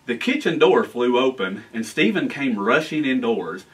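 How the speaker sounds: lively storybook reading; reading to children. A narrator's reading. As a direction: read it like a bedtime story for kids. Mayor reads story aloud.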